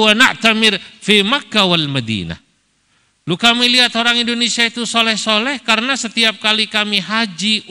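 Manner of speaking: high, loud Arabic speech; Arab cleric quoted. Retold or imitated. Moroccan cleric explains to Kiai Ma'ruf, high and loud. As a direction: lift the voice into an eager Arab cleric. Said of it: "Mereka bilang".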